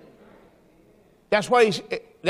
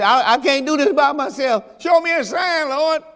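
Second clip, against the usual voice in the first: pleading Jeremiah; 5 semitones higher than usual. Retold or imitated. Jeremiah begging God to show him a sign, pleading. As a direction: beg the Lord for a sign. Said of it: "he said".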